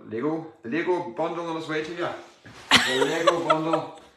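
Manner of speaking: giggling through a fumble; laughing. Real, not acted. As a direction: laugh at the tongue slip. Laughing at own slip.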